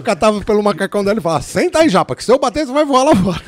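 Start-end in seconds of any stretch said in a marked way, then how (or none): 1.4-3.4 high, loud mock yell; retold shout. Rookie yanks the boss down in the speeding car, shouting high and loud. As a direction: bark it over the engine noise.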